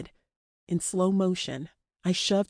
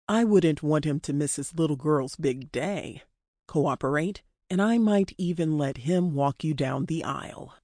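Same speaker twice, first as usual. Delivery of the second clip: taunting captor; 3 semitones lower than usual. Acted. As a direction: needle the captive, controlled and unhurried. Dean taunts his captive.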